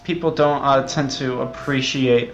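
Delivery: a lightly voiced, earnest game developer, slightly stiff. Sibling as developer giving a solemn interview, lightly acted. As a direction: play the sincere indie dev who takes it all very seriously.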